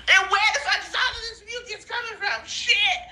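high, rushed, half-crying complaint; laughing exasperated outburst. Real, not acted. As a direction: blurt it fast through tearful laughter.

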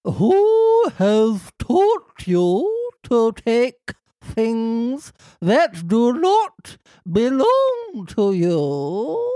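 ghostly warble through the line; warbling ghost voice. Acted. Fairy asking who taught the boy to steal, warbling. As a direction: let the voice waver like a ghost. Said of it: "keep the warble in there".

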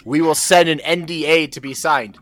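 lightly voiced official reading out rules; mock official instructions. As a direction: spell out the procedure with mock formality. Reciting a form's absurd instructions.

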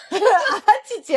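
slow, laughing hot-hot hook; a pop singer's hot hot. Retold or imitated. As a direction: stretch it out like a pop idol. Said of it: "歌手ばりに".

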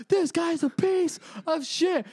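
mock his friend's fury in a squeaky voice; hammed-up indignant whine; imitating Mike upset. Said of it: "and he's just like".

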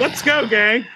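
rally the gang cheerfully; upbeat Sonic voice. Retold or imitated. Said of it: "just not responding and going".

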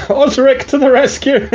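high-pitched playful hero cry; mock heroic announcement. Game master jokes that Osric is coming, mock heroic. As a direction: announce a rescue in jest.

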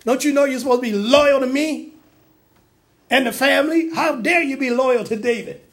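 preacher voicing an angry king; angry scolding. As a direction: scold him for disloyalty, acted out. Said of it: "Saul's anger was kindled against Jonathan".

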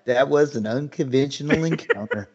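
soft, dry deadpan quote; imitated stoic understatement, quiet and even. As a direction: toss it off completely unimpressed. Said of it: "he's so deadpan".

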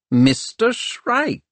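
drawn-out cheery greeting. Acted. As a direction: greet him brightly. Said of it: "sounding almost cheery".

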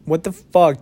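a second, punchier what the fuck. Real, not acted. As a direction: blurt it out, amazed. Repeats his disbelief louder.

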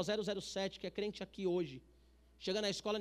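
ordinary delivery

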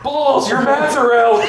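very high, slow squeak through laughter; high squeaky imitation with a laugh; squeaky mock voice. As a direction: squeal it out, barely holding back laughter. Retold friend's high-pitched line.

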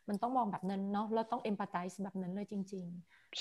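hushed, slow whisper to the listeners. Real, not acted. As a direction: lean in and whisper it like a secret. Confiding point, unvoiced.

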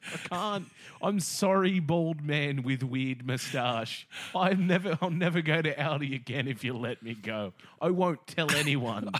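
high, loud frightened begging; mock panicked plea. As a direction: beg for your life, hammed-up. Begging the creepy man.

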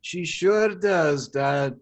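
slow build to high shouted nightmare; mock Shrek. Shrek answering his dad's question, slow then yelled. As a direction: drag it out then explode.

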